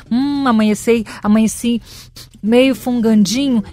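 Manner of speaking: mock sniffly excuse. Mocking a fake sick-day excuse.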